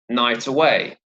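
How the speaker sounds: "night away" joined, final T of "night" starting "away"; "night away" as nigh-taway, stressed on "night" and "way"; linked words. Shown as a demonstration. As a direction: run "night" straight into "away", no gap. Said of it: "there's a liaison here".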